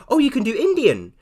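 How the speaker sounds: imitating Indian teacher. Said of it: "And she's like".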